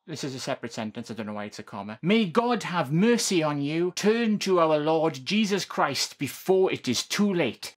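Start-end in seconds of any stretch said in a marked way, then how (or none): 2.0-7.7 preacher voice. Acted. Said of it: "I'm doing my best preacher voice here".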